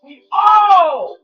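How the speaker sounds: loud rallying shout to the crowd; hype shout. Real, not acted. Hyping the crowd, shouting to them. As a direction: call it out big to everyone.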